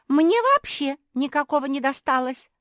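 high, loud tearful puppy wail; whimpering. A narrator's reading. Naretta whimpering she got no bag at all. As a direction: whine it out near tears. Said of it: "всхлипнула Наретта".

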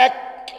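أك with a crisp kaf a little forward; isolated kaf sound. Shown as a demonstration. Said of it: "هنا هيحدث اللسان". (نطق الكاف منفردة)

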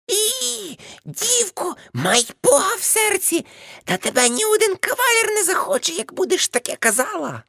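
put-on wag a finger at the girl; lecturing aunt. Aunt lecturing the niece about suitors, high mock auntie voice.

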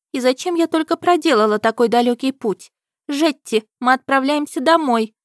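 high, loud petulant princess; capricious princess. A narrator's reading. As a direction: whine like a spoiled princess.

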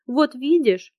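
a reproachful cry; raising her voice in reproach. A narrator's reading. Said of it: "воскликнула подруга, повышая голос".

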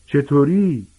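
put-on a spoiled boy drawling at the teacher; flat drawl. A narrator's reading. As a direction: sneer it slowly and without life. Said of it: "صدای بیروح و کشدار مالفوی گفت".

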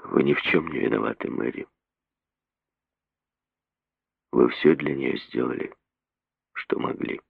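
soft, gentle reassurance, fading; tender. A narrator's reading. The doctor reassuring Mary, tender and soft. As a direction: comfort her quietly. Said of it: "нежно посмотрел на неё".

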